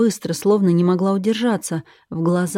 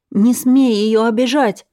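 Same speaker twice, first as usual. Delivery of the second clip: higher, louder, slow furious bark; barked order; 5 semitones higher, 5 dB louder than usual. Acted. Sister in chains barks at the captor, furious. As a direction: bark it at her to protect her sister. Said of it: "рявкнула".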